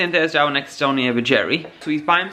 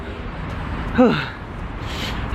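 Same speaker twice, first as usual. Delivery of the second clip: long unvoiced panting breath; breathless sigh; 3 dB quieter than usual. Shown as a demonstration. Out of breath walking up the street, heavy exhale. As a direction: puff out air after walking uphill. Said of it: "This is how out of breath I am".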